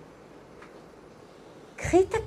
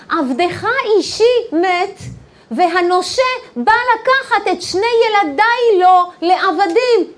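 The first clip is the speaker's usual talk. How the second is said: loud, raised plea of a desperate widow; retold crying out; 7 semitones higher, 6 dB louder than usual. Widow cries to Elisha about her children, acted loud plea. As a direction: cry out to the prophet, high and loud. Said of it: "והיא צועקת אליו".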